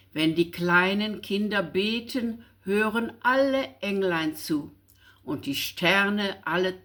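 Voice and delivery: put-on calm, measured reading of a child's angel poem; poem recitation. Reading the angel poem from the schoolbook, calm recitation.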